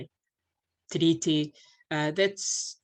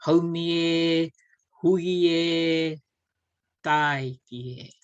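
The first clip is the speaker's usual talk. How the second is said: loud chanted call, haumi e slow; 6 dB louder, slower than usual. Shown as a demonstration. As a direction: call out like a speaker leading the chant. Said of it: "the speaker will do the haumi e".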